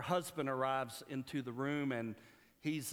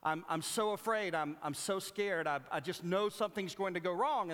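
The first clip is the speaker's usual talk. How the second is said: mildly anxious retold worry, a bit higher; worried mother; 4 semitones higher than usual. Mother to doctor after giving birth, mildly worried. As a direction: voice a mother's fretting with slight urgency. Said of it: "the mother persists in her worries".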